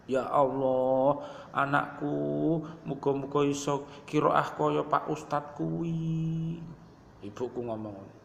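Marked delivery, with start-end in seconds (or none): 0.1-6.6 slow, tearful mother's prayer. Retold or imitated. Preacher voicing his weeping mother praying for her son, slow and tearful. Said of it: "ana nangis".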